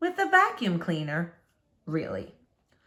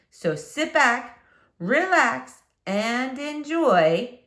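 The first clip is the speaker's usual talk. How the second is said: soothing invite; 4 semitones higher, much slower than usual. Acted. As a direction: ease the kids into listening. Teacher's slow invitation to relax.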